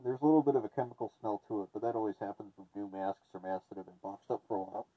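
muffled voice behind a respirator; through a gas mask. Real, not acted. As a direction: talk through a face mask. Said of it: "As you can hear, the T F sixty does actually have half decent voice, uh, transfer".

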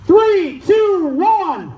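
drawn-out countdown call; starter's countdown. Real, not acted. Starter counting woodchoppers in, drawn-out countdown. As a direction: call each number out long and evenly.

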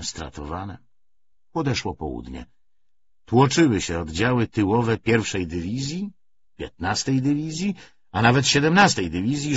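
ordinary delivery

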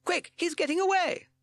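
high, loud urgent shout; Captain Beaky shouting. A narrator's reading. Captain as Sid escapes, urgent shout. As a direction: urge the crew into the chase. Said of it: "shouted Captain Beaky".

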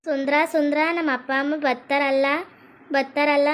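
mildly tearful, anxious asking; acted crying. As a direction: seek comfort with a touch of weeping. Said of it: "ಅಳ್ಬಾರ್ದು ಹಿಂಗೆ". (ಸ್ವಲ್ಪ ಅಳುತ್ತಾ ಕೇಳುವಂತೆ ನಟನೆ)

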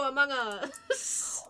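slow fake sob; mock crying. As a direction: wail the meme.

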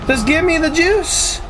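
high, slow, drawn out plea; pleading demand. Acted. Streamer begging the game for power, high and slow.

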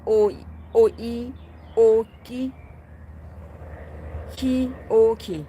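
"โออี", "โอ", "กิ" in separate pieces; sounding out. Shown as a demonstration. Streamer explaining how the name sounded, syllable by syllable. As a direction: demonstrate "คิ โอคิ" bit by bit. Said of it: "เพราะมันออกเป็นอย่างนั้น".

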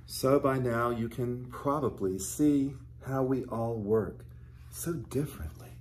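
gentle storybook reading voice; teacher reading a storybook aloud to children. Acted. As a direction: read the picture book to the little ones. Reads a picture book to children.

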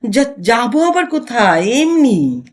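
hesitant stammer. Acted. Startled husband stammering to his suspicious wife, hesitant. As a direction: falter and stumble over the first word. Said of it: "আমতা আমতা করে বললেন".

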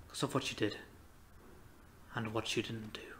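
quiet condemnation. Acted. Grim verdict after the outburst.

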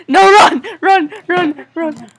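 urgent shouted run; yelling while running away. Real, not acted. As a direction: yell at them to flee. Game character fleeing the potato.

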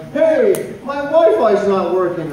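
imitating older caller. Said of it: "the older people going".

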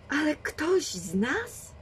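wysoko i wolno, z lękiem; przestraszone pytanie. A narrator's reading. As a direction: zapytaj z niedowierzaniem i strachem. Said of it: "wtrąciła się Renisenb". (przestraszona dziewczyna dopytuje babkę)

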